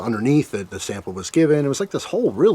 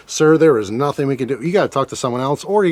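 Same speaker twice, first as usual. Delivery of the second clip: mock customer service; 3 semitones higher than usual. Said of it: "when you talk to people in customer service".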